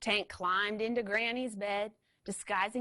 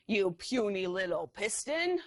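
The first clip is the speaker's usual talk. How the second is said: mild honk. Acted. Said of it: "he honked".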